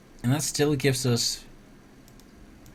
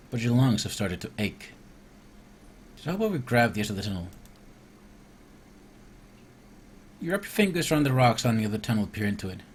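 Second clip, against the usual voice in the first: steady storybook narration, falling at line ends; story narration. Acted. Player reading the cave swim to viewers, narrating. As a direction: read the adventure text aloud evenly. Reads the game's scripted event aloud.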